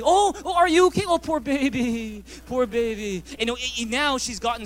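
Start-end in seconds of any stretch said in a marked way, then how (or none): 0.0-3.2 much higher and louder mock sympathy; raised voice. Husband voicing the sympathy he wanted from his wife, high and gushing. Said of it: "I raised my voice and said".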